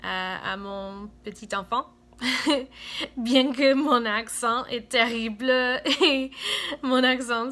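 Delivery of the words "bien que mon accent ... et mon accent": louder, laughing through the words; laughing at herself. Real, not acted. Confessing to viewers her accent is terrible, laughing. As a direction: laugh off the embarrassment.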